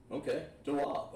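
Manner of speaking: "tawab" dengan akhiran -ab; tawab, male form. Shown as a demonstration. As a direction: say "tawab" ending on a short ab. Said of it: "When you're saying it to a male".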